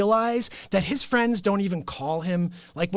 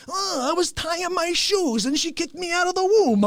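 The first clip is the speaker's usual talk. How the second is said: higher mock voice; imitating Fauci; 6 semitones higher than usual. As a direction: lightly voice the rambling candidate. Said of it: "I'm like".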